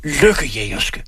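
drawn-out slow yell; parting insult shout. A narrator's reading. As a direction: fling the insult as the door slams. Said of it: "råber han".

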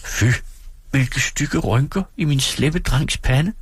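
høj, langsom drilsk pigestemme; skæld kærligt ud på skrømt; legende skænd. Acted. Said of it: "sagde Dora". (Dora driller sin mand, høj og langsom)

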